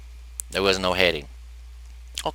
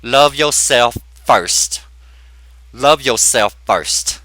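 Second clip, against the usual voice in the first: slow sincere advice; 3 dB louder, much slower than usual. Retold or imitated. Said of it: "I said".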